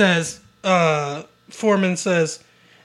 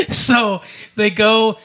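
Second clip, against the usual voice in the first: slow words still laughing; laughing while starting the story again; 4 semitones higher, slower than usual. Real, not acted. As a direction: talk through the tail of a laugh. Laughing through narration.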